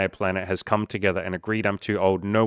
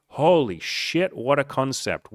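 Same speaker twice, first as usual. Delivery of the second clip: sarcastic amazement; 5 semitones higher, slower than usual. Pretend.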